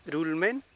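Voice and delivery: RULMEN starting with a light Spanish tap; wrong tapped r. Shown as a demonstration. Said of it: "No es".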